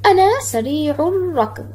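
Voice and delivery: سريع الركض linked as "sarii'ur-rakd", no l, long r; mid-sentence sun lam. Shown as a demonstration. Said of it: "إذا جاءت في كلمة في وسط الجملة".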